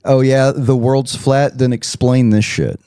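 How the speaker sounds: drawn-out fake agreement, then the challenge; mocking sarcasm. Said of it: "I'm like".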